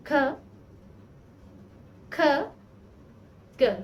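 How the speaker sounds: ख, ख, ग said slowly one by one with long pauses; Korean letters demo. Shown as a demonstration. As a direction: sound out ख, ख, ग carefully as near-identical letters. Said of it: "I'll give you an example". (ख, ख, ग को धीरे-धीरे अलग-अलग बोलना)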